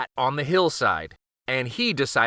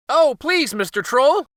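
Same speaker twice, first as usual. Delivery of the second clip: much higher, louder desperate plea; crying goat plea; 13 semitones higher, 6 dB louder than usual. A narrator's reading. Goat cries out pleading to the troll. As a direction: beg for mercy in a high cry. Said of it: "cried the billy goat".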